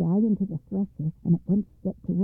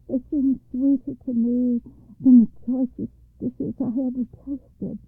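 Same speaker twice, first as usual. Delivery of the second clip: feeble, pleading higher voice; weak voice; 4 semitones higher than usual. Acted. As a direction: plead weakly like a starved man. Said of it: "Said the Lord in a weak voice".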